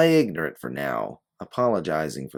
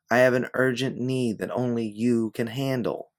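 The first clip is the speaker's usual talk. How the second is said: haughty woman; 7 semitones higher, 3 dB louder than usual. Acted. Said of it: "regaining the one from before".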